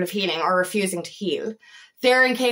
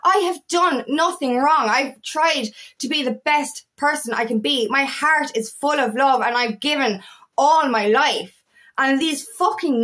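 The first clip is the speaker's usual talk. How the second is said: retold outrage. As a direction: replay last week's anger in the voice. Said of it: "so angry, so fucking angry and upset".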